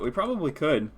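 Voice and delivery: hiccups breaking the words; hiccuping. Real, not acted. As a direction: talk through the hiccups. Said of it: "excuse me, I have the hiccups".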